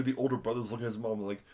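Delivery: ordinary delivery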